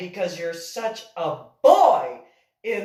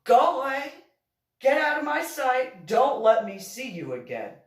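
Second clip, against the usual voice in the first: sharp dismissal; 5 semitones higher than usual. Retold or imitated. Sending the boy away.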